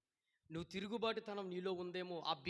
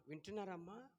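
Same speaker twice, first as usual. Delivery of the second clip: usual speaking voice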